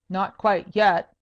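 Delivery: slow, loud menacing threat; terrible voice. Acted. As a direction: threaten her slowly and darkly. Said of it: "cried Sir Francis in a terrible voice".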